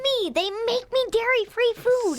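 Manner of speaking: high-pitched, eager boast; loud excitement. Real, not acted. Child bragging to dad about church cooks, loud excitement. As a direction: cut in high and delighted. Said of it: "You're loud".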